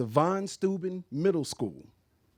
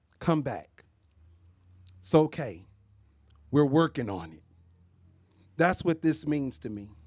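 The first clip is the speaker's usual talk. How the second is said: choked-up voice, catching with emotion; 2 semitones lower than usual. A pastor talking about Chelsea, getting choked up. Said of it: "I'm getting choked up".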